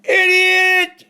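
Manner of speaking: high, loud yell back; hollered insult. Retold or imitated. The teller hollering back at the passing driver, loud yell. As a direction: fire the insult right back. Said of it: "I hollered".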